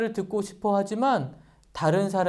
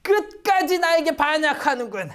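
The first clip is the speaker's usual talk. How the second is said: higher, slow, seething villain; angry Haman; 7 semitones higher, slower than usual. Acted. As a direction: spit out the name in acted rage. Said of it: "막 화가 났어요". (화가 난 하만이 모르드개를 원망하며)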